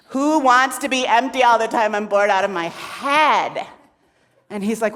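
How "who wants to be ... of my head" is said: loud, fed-up protest; exasperated outburst. Acted. Shakti protesting endless emptiness, exasperated. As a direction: burst out in exasperation.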